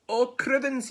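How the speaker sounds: high, loud storybook alarm; startled snake. Acted. Snake catching sight of gruffalo, high startled cry. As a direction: yelp it in fright.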